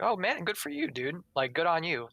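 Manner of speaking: high, friendly good for you, dude; mean it, cheer them on; sincere hyped-up congratulations; genuine praise. Shown as a demonstration. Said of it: "that's how I'd say it".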